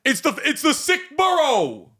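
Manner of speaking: high, slow, hammed-up Long Island accent. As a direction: overdo a New York Long Island accent. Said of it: "That's kind of the Long Island accent".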